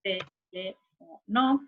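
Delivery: each syllable of TELÉFONO said on its own: te, le, fo, no; split into syllables. Shown as a demonstration. Teacher dividing a word for students, TELÉFONO syllable by syllable. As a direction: count out te-le-fo-no with gaps between. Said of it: "se separa en cuatro sílabas".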